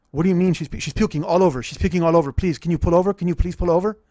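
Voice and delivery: loud, urgent retold panic; acted frantic begging; panicked pleading. Father begs driver to pull over for puking daughter, panicked.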